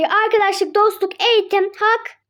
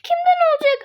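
frightened; 6 semitones higher than usual. Acted. Frightened girl hiding from mother.

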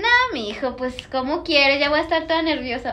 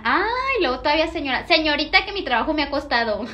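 mock offended; 3 semitones higher than usual. Real, not acted. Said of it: "offended by being called señora".

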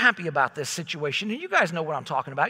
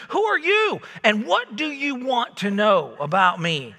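suspicious; 2 semitones higher, 3 dB louder than usual. Retold or imitated. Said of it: "it was suspicion and concern".

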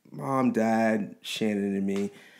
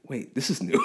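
laughing disbelief; 2 semitones higher than usual. Retold or imitated. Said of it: "And I was like".

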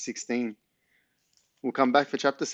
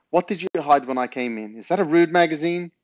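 shocked accusation; 5 semitones higher, 5 dB louder than usual. Acted. Mum accuses Ben.

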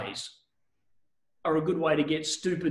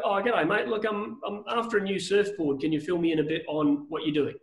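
casual buyer. Retold or imitated. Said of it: "I ring up and go".

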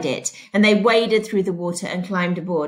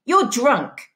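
yelled; 4 semitones higher than usual. Acted. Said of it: "she yelled".

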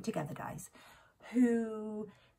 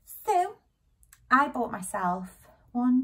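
excited; 3 semitones higher, 6 dB louder, slower than usual. Acted. Excited reveal.

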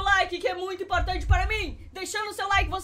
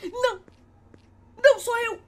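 relieved cry; 5 semitones higher than usual. Real, not acted. Relief as another dies.

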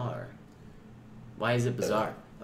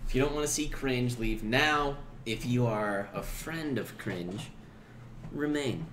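measured announcement with weighty pauses; mock-formal disclaimer. Stoned host disclaiming responsibility for cringe, mock-formal announcement. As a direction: declare it solemnly, phrase by phrase.

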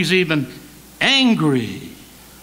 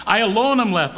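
higher mock lament; acted-out self-pity; Elijah's complaint; 6 semitones higher, 4 dB louder, faster than usual. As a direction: throw out the grievance emphatically. Mimicking Elijah's wrong words.

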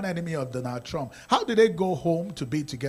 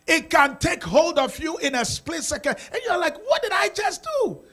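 retold shock; 11 semitones higher, 4 dB louder than usual. Retelling his own shock.

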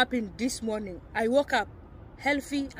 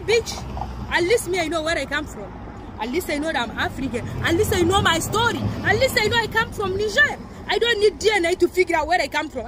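retold angry retort; 4 semitones higher than usual. Retold shouting match with racist woman.

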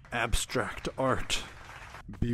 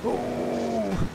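startled yelp; 7 semitones higher than usual. Real, not acted. Rough ride through tunnel.

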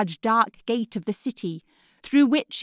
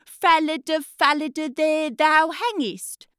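boy mimicking the girl; 4 semitones higher than usual. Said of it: "the wall and says".

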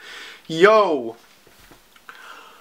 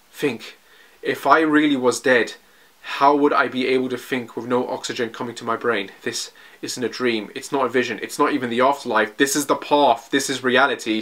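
a lightly voiced, hushed young soldier thinking aloud; Armin's inner monologue; 3 semitones lower than usual.

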